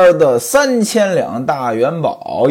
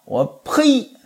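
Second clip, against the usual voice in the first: angrier scolding. Acted. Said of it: "这火儿更大了".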